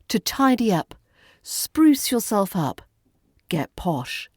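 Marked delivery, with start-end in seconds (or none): none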